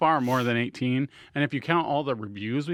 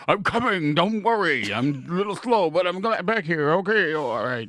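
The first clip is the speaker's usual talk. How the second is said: Gimli impression; 2 semitones higher than usual. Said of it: "You can be Gimli the dwarf".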